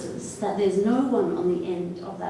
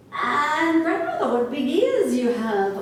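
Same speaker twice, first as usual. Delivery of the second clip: mild amazement, starting high; lightly voiced marvelling girl; girl's wonder; 5 semitones higher, 4 dB louder than usual. Girl remarks on grandmother in bed, mild high wonder.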